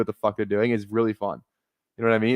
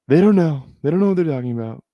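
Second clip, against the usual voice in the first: loud, higher outburst, then faster; exasperated shout; 5 semitones higher, 5 dB louder than usual. Real, not acted. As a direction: yell your disbelief at the list. Outraged at a player's ranking.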